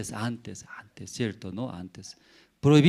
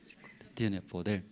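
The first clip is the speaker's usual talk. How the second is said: whisper; 3 semitones lower, 8 dB quieter than usual. Real, not acted. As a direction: whisper it to make them feel the fear. Preacher whispers for effect.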